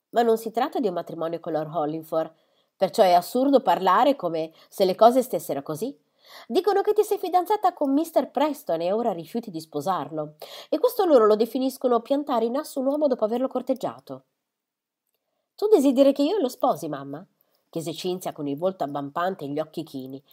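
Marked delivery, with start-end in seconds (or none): 0.1-14.2 higher and louder reproach; mother lecturing on a broken engagement; scolding mother. Acted. 15.6-17.2 sharp higher question, dropping on mamma; pointed question. Acted.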